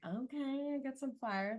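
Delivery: imitating a curt, fired-up partner; curt aggro tone. Imitating an Aries partner's curt, aggro tone. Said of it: "sounds a little aggro".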